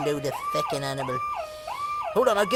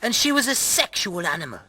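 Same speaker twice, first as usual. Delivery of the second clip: measured, lower storyteller's read; story narration; 7 semitones lower, 5 dB quieter than usual. Acted. Reading a tale of a married couple, story narration. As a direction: narrate with mock gravity, falling at the ends.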